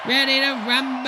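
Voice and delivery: announcer voice. Pretend. Mock boxing announcer.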